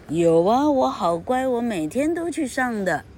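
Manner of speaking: put-on high, eager little boy fibbing; puppet boy voice. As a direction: chirp it out like a naughty puppet. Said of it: "Pinocchio说了一个谎话".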